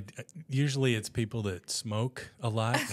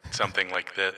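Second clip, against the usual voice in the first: echoey voice; 6 semitones lower than usual. Shown as a demonstration. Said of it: "like, echoey".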